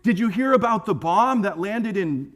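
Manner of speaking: hammed-up fretting over world news; nervous. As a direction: act out a worried churchgoer spreading rumors. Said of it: "people get really nervous".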